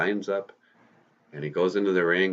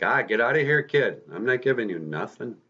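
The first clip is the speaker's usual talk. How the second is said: lightly voiced manager, pitched higher; dismissive manager; 4 semitones higher than usual. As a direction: brush the kid off. Manager brushes off Peter asking money.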